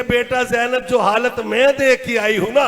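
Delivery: slow, drawn-out mournful warning; tearful preacher's rendering of a mother; retold tearful warning. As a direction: lament it slowly to a daughter. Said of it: "रो के कहती है".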